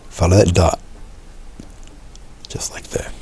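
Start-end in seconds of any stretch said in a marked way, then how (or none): 2.5-3.1 breathy whisper to himself. Real, not acted. Painter whispering to himself over the stroke. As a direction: murmur it under the breath while brushing. Painter murmurs while brushing.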